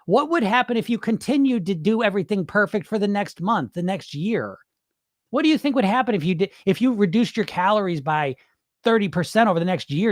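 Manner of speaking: heated, incredulous challenge to dieters; getting mad. Real, not acted. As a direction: fire pointed questions in exasperation. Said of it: "don't mean to get mad at my clients".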